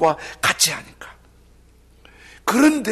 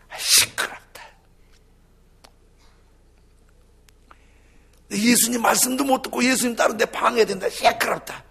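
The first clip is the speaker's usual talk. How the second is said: annoyed, louder rebuke; mock scolding; 6 semitones higher, 5 dB louder than usual. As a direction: scold the blind man, irritated. 꾸짖는 무리 흉내. (짜증내며 꾸짖는 군중 흉내)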